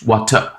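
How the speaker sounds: "water" said as "wat-uh", R dropped; soft UH ending. Shown as a demonstration. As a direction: let "water" end softly on "uh". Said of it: "replace the R sound with a U H sound".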